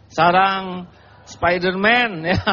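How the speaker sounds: chuckling through the joke, slowed; laughing. Real, not acted. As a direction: laugh while you name it. Joking about spider webs.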